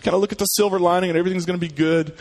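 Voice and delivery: high, fast breezy cheer; mock naive optimism. Mocking the naive optimist, high and quick. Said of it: "other view that just says".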